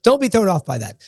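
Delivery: slightly under the weather, still upbeat; sick voice. Real, not acted. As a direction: voice a little off from a cold. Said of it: "my slightly sick voice here".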